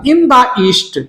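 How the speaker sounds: slow, "the" clearly marked; slow phrase, "the" stressed. Shown as a demonstration. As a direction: hit the word "the". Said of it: "in और east के बीच में दा लगेगा".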